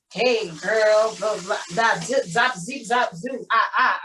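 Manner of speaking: sing-song mimicry of a sassy girl act; bouncing up and down in mock sass; mocking caricature. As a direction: parody the director's clueless demo. Mimicking director demonstrating stereotyped voice.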